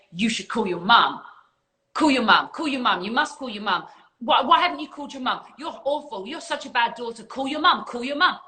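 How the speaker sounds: a guilt-tripping inner voice that won't let up; nagging ego voice. Retold or imitated. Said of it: "That's your ego".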